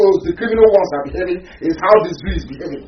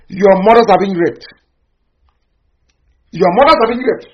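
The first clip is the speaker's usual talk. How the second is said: building outrage; 3 semitones higher, 6 dB louder than usual. Real, not acted. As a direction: hammer it home, rising. Repeated accusation, escalating.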